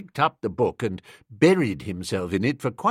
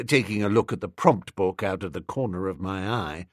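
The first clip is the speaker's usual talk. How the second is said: ordinary delivery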